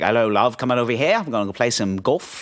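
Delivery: light mock South African charmer; flirty put-on South African lilt; sexy South African accent. Old golfer chatting up a love, mock South African accent. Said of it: "like, sexy South African accent".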